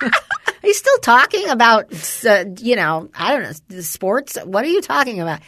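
high, laughing, slowed disbelief; amused mom laughing at chatty son. Real, not acted. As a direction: laugh through the question. Laughing at son's endless talk.

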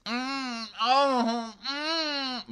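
high, soft moan; mock pleasure moans, drawn out; imitated massage moans. Podcaster mimicking a massage therapist's noises, soft high moaning. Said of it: "does things like this".

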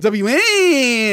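slow, drawn-out radio call letters; Howard Stern impression. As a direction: show how it's done, letter by letter. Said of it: "No, no, do like me".

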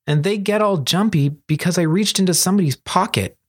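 Kuro, protesting. Acted. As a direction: defend yourself as the misjudged young thief.

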